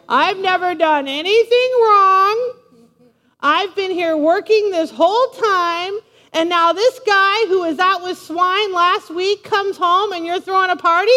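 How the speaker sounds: high, loud mock whine; whiner. Older son griping about his brother's party, whining. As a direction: drag out the grievance, then hurry into outrage. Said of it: "Talk about a whiner".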